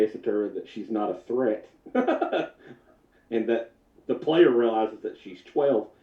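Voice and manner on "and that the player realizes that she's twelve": laughing. Real, not acted. Laughing through narration.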